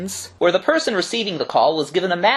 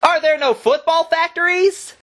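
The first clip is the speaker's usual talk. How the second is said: playful character voice; 11 semitones higher than usual. Acted. Mock sketch dialogue, high voice.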